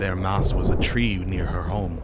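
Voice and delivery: lightly voiced rustic sailor; old-hand sailor explaining. Sailor explaining the ghost to Thad, knowing. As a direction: offer it as crew lore.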